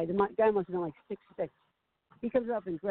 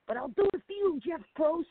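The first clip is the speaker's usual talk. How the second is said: flirty; 9 semitones higher than usual. Retold or imitated. Sucking up to host on tape.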